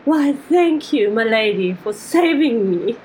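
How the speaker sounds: lightly tipsy, grand gratitude; drunken goblin. Acted. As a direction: thank them like a courtly drunk. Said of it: "turn very drunkenly to Amandla".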